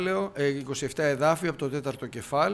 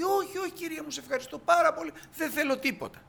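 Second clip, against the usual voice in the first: much higher, polite flustered refusal; humble woman; 13 semitones higher, 4 dB louder than usual. Retold or imitated. The hostess politely refuses the prophet's gift, higher and humble. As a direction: play the modest hostess declining.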